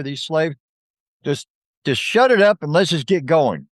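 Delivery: a player faking Sambalat's voice, not convincingly; bad Sambalat impression. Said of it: "you sound nothing like Sambalat".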